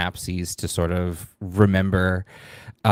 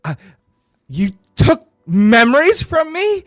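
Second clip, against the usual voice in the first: high, loud disbelieving fury; confronting the friend who stole his memories, shouting; outraged accusation; 12 semitones higher, 8 dB louder than usual. Acted. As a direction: throw the accusation in her face. Player confronts the betrayer.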